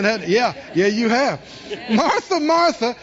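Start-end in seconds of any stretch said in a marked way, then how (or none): 1.9-3.0 gentle rebuke. Retold or imitated. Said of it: "when the Lord calls your name twice like that".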